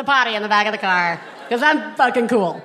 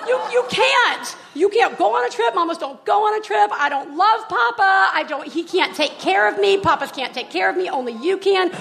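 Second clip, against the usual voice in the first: put-on hysterical toddler; 4 semitones higher than usual. Mom imitating her son begging her not to leave, high. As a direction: plead like a panicking little boy. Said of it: "he becomes, like, hysterical".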